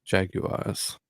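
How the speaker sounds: Jaguars copied as "JAG-yoo-ahz"; Jaguars, British style, "JAG-you-ahz"; American trying British pronunciation. Shown as a demonstration. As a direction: try out Jaguars in three syllables, softly. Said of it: "when an American says it".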